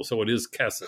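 kesed stressed on the first syllable, KE-sed. Shown as a demonstration. Explaining to the host, says kesed stressed on KE. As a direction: say kesed with the weight on KE. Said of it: "you pronounce it with the accent on the first syllable".

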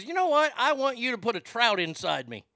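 a hint of a coy girlfriend proposing something wild; playing Bratty Kid. Girlfriend on a fishing trip asks for the trout, lightly voiced and coy. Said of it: "I can go ahead and role play this one".

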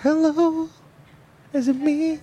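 high mic check. Real, not acted.

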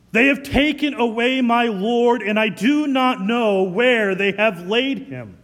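loud, pressing lament; loud distraught plea. Acted. Mary telling the angels her Lord is gone, loud lament. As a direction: cry it out in loss.

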